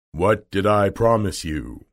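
imposing storybook wizard; lightly voiced grand wizard; Oz's voice. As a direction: ask it as a lofty unseen ruler. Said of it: "asked Oz".

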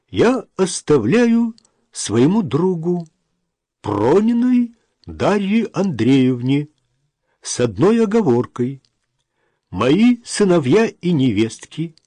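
slow, measured reading of a document; formal reading aloud. A narrator's reading. Notary reads the will about the flat, formal reading. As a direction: read out the will, pausing between phrases. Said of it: "закончил читать".

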